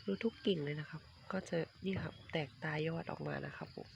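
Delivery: soft unvoiced whisper while pointing at the shoots. Real, not acted. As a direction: drop to a whisper, close to the camera. Showing durian shoots on camera.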